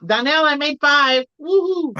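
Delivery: calls out her win proudly; excited calling out. Real, not acted. Calling out to a friend.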